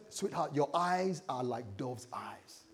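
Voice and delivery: slow, tender reading of the verse; slightly dramatic. Shown as a demonstration. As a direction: draw out the love line slowly. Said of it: "You know, slightly dramatic".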